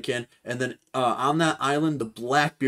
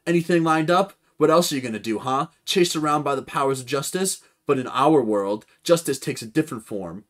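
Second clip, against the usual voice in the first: a touch higher and louder persuasive pitch; lightly voiced pirate captain; 5 semitones higher, 4 dB louder than usual. Blackbeard recruiting Kuzan, lightly voiced and persuasive. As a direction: coax him to join your crew.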